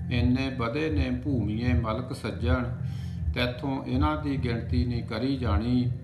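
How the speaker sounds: measured, projected verse recital; declaimed Punjabi poetry in even cadence; poem recitation. Acted. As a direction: recite it line by line with a steady beat. Recites a poem after introducing it.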